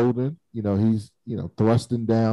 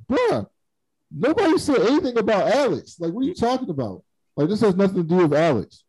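mock exasperated Amos; 8 semitones higher than usual. Amos defending Clarissa to Naomi.

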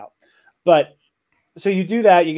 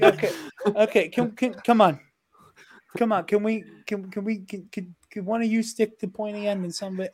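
bored; 5 semitones higher, 5 dB quieter than usual. Retold or imitated. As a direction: sound completely unbothered and bored. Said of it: "he also sounds bored".

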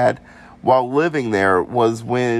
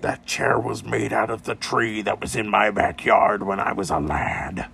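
put-on weird British accent; 4 dB quieter than usual. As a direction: growl it like an old British ghost. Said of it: "so we're going with weird British grunts".

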